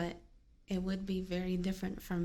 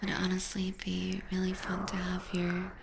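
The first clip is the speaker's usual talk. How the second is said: ASMR whisper. Acted. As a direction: whisper it close to the ear. Whispered musing.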